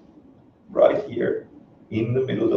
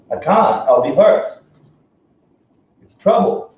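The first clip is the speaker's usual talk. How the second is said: mock fearful whine; 7 semitones higher, 4 dB louder than usual. Acting reluctant students' protest.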